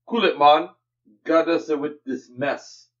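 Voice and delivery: hammed-up Jamaican accent; stereotypical Jamaican accent. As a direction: read it in a mock Jamaican accent. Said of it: "doing a very stereotypical Jamaican accent".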